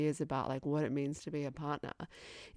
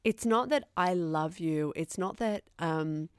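mock earnest confession; slower than usual. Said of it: "That's what he says".

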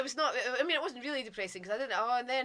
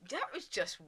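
slow, loud, higher delivery; weirded-out verdict; 6 semitones higher, 6 dB louder, slower than usual. Retold or imitated. Film star reacting to interviewer's babble, slow weirded-out verdict. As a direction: spell out the verdict slowly, imitating him.

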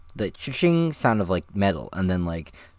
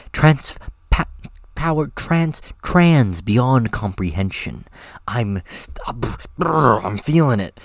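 character voice; 2 semitones higher, 4 dB louder, slower than usual. Acted. Actor reading power-up line.

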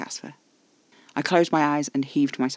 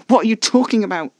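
higher, louder sharp demand; angry hiss; 7 semitones higher, 9 dB louder than usual. A narrator's reading. Narrator confronting Caspar's talk of killing, angry hiss. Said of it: "I hissed".

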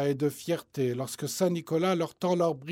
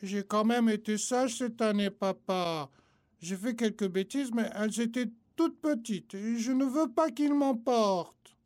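put-on higher, scared child's plea; trembling little voice; 5 semitones higher than usual. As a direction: plead like a frightened little boy. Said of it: "d'une petite voix tremblotante".

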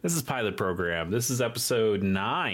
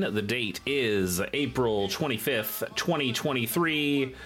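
airline captain; 4 semitones higher than usual. Pretend. Mock captain's cabin announcement.

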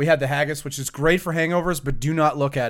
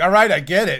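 mock surrender; 5 semitones higher, 6 dB louder than usual. Choked guy gives up.

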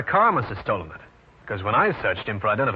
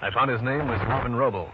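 hard-boiled narration. A narrator's reading. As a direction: tell the case like an old radio private eye. Detective narrates his own case.

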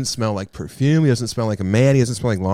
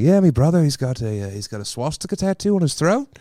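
imitating Zane; 3 semitones higher than usual. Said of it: "So he was like".

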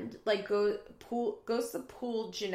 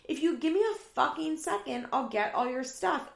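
high, mock-angry snapping back; exasperated retort; 6 semitones higher, 3 dB louder than usual. Roommate promising to fetch the stuff, mock exasperation. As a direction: imitate someone losing patience in a fight.

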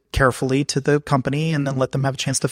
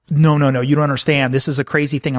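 urgent insisting. Retold or imitated. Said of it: "they look at me like".

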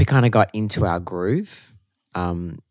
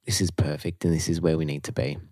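whispering it to herself; dreamy whisper; 4 semitones lower, 5 dB quieter than usual. Retold or imitated. Recalling the first week, whispering she's found her place. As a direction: breathe the words out, unvoiced and soft. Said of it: "I was just like".

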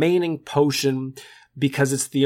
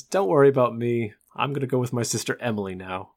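bad movie dubbing; 3 semitones lower, 4 dB quieter, faster than usual. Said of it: "using his dubbed voice".

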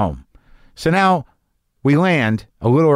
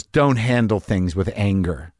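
slow, calm, lower advice; 5 semitones lower, slower than usual. Retold or imitated. Gate worker calmly advising the angry traveler, slow and gentle. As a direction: say it gently and slowly, like a wise elder. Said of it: "and he goes".

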